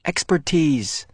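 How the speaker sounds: slow, flat correction; boy correcting friend's word; automatic correction. Acted. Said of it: "corrected him automatically".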